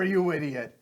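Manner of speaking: high, loud yelled command; furious order. Acted. Connor yelling at his henchman to dive in. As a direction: scream at the idiot.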